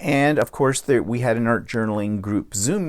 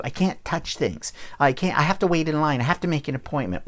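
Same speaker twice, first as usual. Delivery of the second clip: mock whiny complainer, a bit higher; mild mocking whine, slightly raised pitch; 3 semitones higher than usual. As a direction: imitate a whiner listing grievances, lightly put on. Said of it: "notice I'm using my whiny voice".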